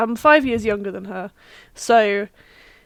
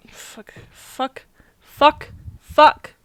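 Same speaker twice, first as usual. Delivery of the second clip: muttered then louder curses; frustrated cursing; 4 semitones higher, 6 dB louder, much slower than usual. Real, not acted. Can't remember an actor's name.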